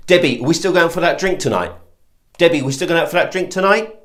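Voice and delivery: upward, doubtful questioning lilt; unsure upward inflection on "tonight". Shown as a demonstration. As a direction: ask it hesitantly, tune lifting at TONIGHT. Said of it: "One tone can cause so much devastation".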